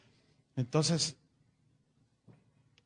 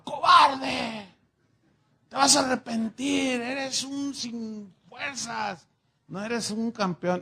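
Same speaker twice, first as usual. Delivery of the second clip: high, loud scornful yell; angry shout; 5 semitones higher, 4 dB louder, slower than usual. Acted. Pancho yells at the surrendering Pepe, angry and high. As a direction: hurl the insult at him. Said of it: "el Pancho le gritaba".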